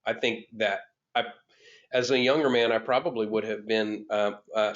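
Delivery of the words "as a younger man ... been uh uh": ordinary talk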